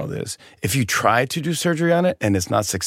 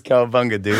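laughing quote. Acted. Invented waiter's reply, said laughing.

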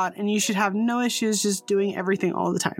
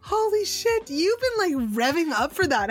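after laughing hard; 6 semitones higher than usual. Real, not acted. Still laughing at friend.

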